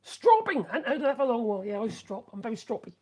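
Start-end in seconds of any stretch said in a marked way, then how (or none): 0.0-0.6 much higher delighted "Stropping!"; light up at a forgotten word; amused surprise; surprised exclamation. Real, not acted.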